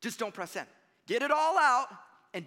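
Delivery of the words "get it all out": high, loud burst; belted out high and forceful; venting shout. Acted. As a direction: let it all burst out loudly. Acting out venting before sending.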